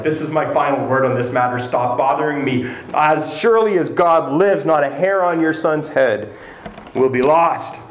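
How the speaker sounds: firm, final royal word; forceful. Retold or imitated. King ending the argument with the woman, firmly. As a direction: shut the matter down with authority. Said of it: "I tend to imagine that David said it quite forcefully".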